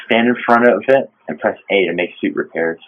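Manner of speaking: low, soft log narration; captain's log reading. Acted. Player reading out the game's crash log, subdued narration.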